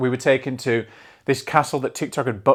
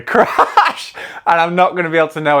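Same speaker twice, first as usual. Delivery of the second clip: dramatic crash; 5 semitones higher, 6 dB louder than usual. Pretend. Playfully dramatizing coming energy crash.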